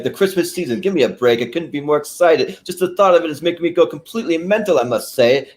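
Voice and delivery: high, excited nerdy voice; mock Ed Grimley rant about Christmas; Ed Grimley impression. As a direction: gush like a giddy manchild over Christmas. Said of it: "He's like".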